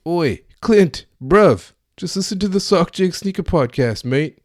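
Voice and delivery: loud, high, hammed-up cockney calling out to a mate; mock British accent. Host calling out to Clint, loud mock British accent. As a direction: shout it like a cheeky London lad. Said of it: "that was still terrible".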